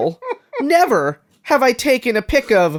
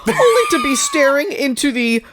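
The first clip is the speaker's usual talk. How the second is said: nerdy voice; 6 semitones higher than usual. Retold or imitated. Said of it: "a nerdy voice".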